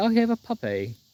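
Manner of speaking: put-on very high British little girl toddler voice. Retelling a video of a girl with a puppy: imitating a british three-year-old girl. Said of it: "British three-year-old girl holding a puppy".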